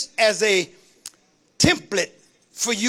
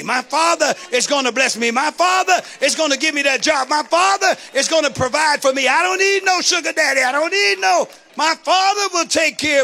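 higher-pitched, emphatic declaration of faith; fervent preaching; 5 semitones higher than usual. Real, not acted. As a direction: preach it with rising fervor. Preaches at full force.

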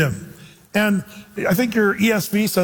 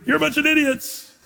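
mock scream; 9 semitones higher than usual. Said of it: "do you scream".

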